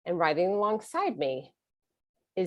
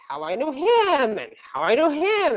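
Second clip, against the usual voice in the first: deflecting; 6 semitones higher than usual. Retold or imitated. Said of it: "now I'm deflecting".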